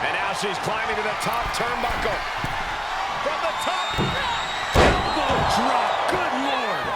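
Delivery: building to a shouted call; wrestling commentator. Real, not acted. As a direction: call the climb, then shout the drop. Live play-by-play of move.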